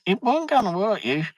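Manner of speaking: high, breezy imitation of the wife's reassurance; imitating wife. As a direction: mimic her light dismissive tone. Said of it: "she says".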